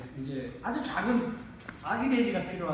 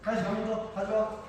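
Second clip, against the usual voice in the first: talking to a pig; 3 semitones higher, 3 dB quieter than usual. Real, not acted. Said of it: "그걸 한번 보여드릴게요".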